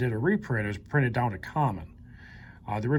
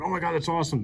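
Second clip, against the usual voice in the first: higher-pitched excited reaction; mock excitement; 6 semitones higher, faster than usual. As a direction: act out a burst of delight, pitched up. Acts out own reaction to card.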